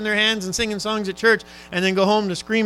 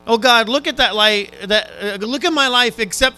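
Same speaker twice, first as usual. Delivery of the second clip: loud mock prayer; 7 dB louder than usual. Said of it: "I don't know if I could say that".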